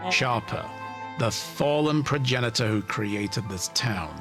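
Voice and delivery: smug villain monologue. Acted. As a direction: savour the reveal like a mastermind.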